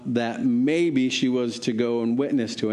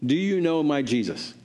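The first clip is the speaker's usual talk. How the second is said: put-on higher-pitched call to a hard-of-hearing old man; said loudly; 4 semitones higher than usual. Woman asking the elderly man about Jesus, higher and louder. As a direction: lift the voice on Sir to be heard. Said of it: "and she said this loudly".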